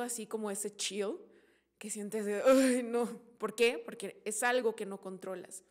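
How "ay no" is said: loud, drawn-out 'ay' of aversion; mock shudder of dread. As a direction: groan it as if a chill runs through you. Acting out the chill of fear. (quejido de escalofrío fingido)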